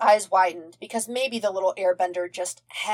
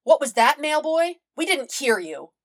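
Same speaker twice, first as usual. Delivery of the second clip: teasing; 8 semitones higher, 3 dB louder than usual. A narrator's reading. Crew teasing Zuko.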